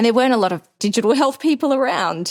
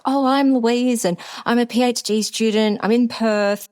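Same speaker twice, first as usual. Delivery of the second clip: eager self-intro; 4 semitones higher than usual. Retold or imitated. Introducing herself to the society, high and keen.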